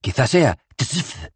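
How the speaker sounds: slow, high, faltering tzf; hesitant. Acted. Rincewind unsure, slowly trying tzf. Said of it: "titubeó Rincewind".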